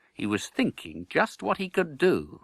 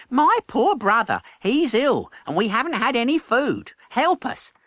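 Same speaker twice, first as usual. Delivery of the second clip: high, pleading beggar's voice, half-hearted; pitiful begging; 5 dB louder than usual. Retold or imitated. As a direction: coax the pity out of a passer-by. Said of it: "go to him and say".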